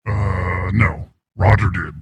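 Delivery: voice changer voice. Acted. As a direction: voice run through a changer. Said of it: "It's just a voice changer".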